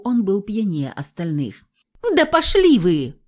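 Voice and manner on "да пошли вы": high, loud yell; shouted insult. A narrator's reading. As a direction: hurl it at them. Girl yelling back.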